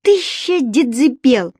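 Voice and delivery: retold yell in sleep. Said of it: "Я ору во сне".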